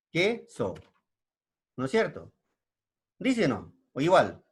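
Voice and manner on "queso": "Queso" in two separated syllables; alternative pronunciation. Shown as a demonstration. Teacher showing another way to say it, "Queso" split in two. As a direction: say "Queso" slowly split, que then so. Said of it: "de otra manera".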